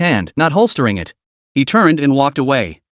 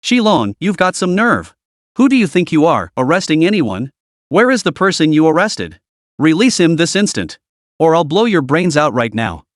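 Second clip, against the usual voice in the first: barking orders. Acted. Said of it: "barking orders".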